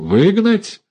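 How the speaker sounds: sharp, high, furious retort; angry echo. A narrator's reading. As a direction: throw the word back at him. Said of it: "зло переспросила Дуня".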